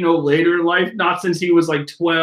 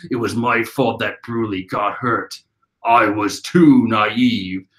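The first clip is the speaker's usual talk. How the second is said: put-on boy's voice; 8 semitones lower, slower than usual. Young Katakuri voiced.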